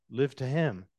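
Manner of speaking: breathy whisper on the last words. Acted. Preacher reading the verse to his church, in a whisper. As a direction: let the verse end in a whisper.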